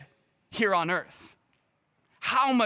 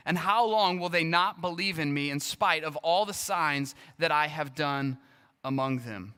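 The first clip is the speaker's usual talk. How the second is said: measured reading of a Bible passage; scripture reading; 3 semitones lower than usual. Acted. Pastor reads the Numbers passage to the congregation, measured scripture reading. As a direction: read the verses steadily to the congregation.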